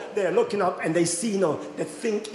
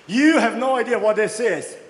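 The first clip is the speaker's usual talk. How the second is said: fervent proclamation; 6 semitones higher, 6 dB louder than usual. Retold or imitated. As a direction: declare it like a revival preacher. Pastor proclaims God's fire.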